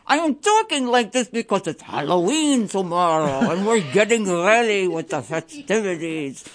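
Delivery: hammed-up Dracula-style Transylvanian accent for the fund drive; vampire accent. Host in costume fangs asking listeners to call, in a mock Transylvanian accent. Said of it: "that's like a Transylvanian slash Italian accent".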